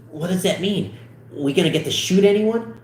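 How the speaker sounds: put-on excited kid asking; eager questioning. Excited character voice in script read.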